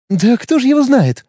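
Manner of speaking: high, brash and patronising; cheeky condescending. Acted. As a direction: talk down to him cheekily. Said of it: "борзо-снисходительным тоном".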